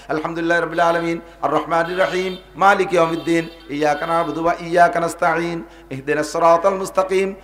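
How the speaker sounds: each verse set apart with a breath between; verse by verse recitation. Shown as a demonstration. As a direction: recite phrase by phrase, pausing at each verse end. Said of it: "কিরাত এভাবে কেটে কেটে পড়বো". (আয়াতে আয়াতে থেমে তিলাওয়াত)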